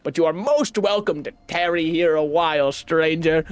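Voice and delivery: put-on mild made-up European accent for the flea leader; a gentle foreign caravan leader, unhurried; fake European accent. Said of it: "that accent ... inspiration was somewhat European".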